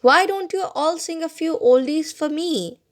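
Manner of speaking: lifted, coaxing request; cheerful suggestion. A narrator's reading. Father to the family to change their mood, cheerful suggestion. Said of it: "to change our mood, he suggested".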